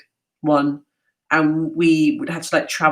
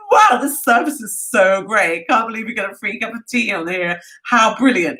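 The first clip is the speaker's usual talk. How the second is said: higher, gushing naive tourist; naive mock delight; 5 semitones higher than usual. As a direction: marvel innocently at the service. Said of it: "saying to each other".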